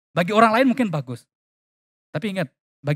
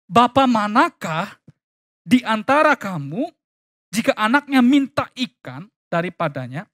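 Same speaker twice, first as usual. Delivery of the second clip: slightly raised recitation, phrase by phrase; emphatic scripture reading; 6 semitones higher, 3 dB louder than usual. Acted. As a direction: read the verse out with questioning emphasis.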